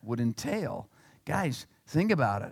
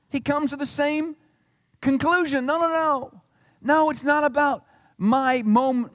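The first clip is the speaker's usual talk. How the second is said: resolute Jesus; 6 semitones higher than usual. Acted. Preacher voices Jesus resolving.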